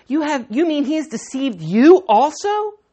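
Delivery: sharp, accusing retort; mock the guards for being fooled; indignant retort. Pharisees scolding the guards, an indignant retort. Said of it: "The Pharisees retorted".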